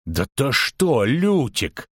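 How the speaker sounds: mildly indignant, drawn-out protest. A narrator's reading. Halfling protests at the bard's suggestion, indignant. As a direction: protest with a touch of outrage. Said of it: "возмутился Дайнти Бибервельт Первый".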